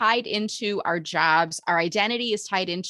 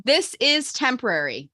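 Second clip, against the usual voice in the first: slow, deliberate line for repeating; measured call-and-response lead; mantra lead; 2 semitones higher than usual. Shown as a demonstration. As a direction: lead a group mantra, unhurried. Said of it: "repeat the line after I say it".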